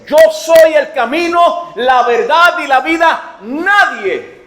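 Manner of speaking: slow, loud, emphatic pulpit delivery; full-force preaching. Acted. Preacher proclaiming Jesus' words to the congregation, loud slow preaching. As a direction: lean on each word of the promise.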